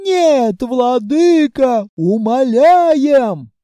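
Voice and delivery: loud, drawn-out, high howl; wailing plea. Acted. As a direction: cry out as you're dragged. Dragged off by tails.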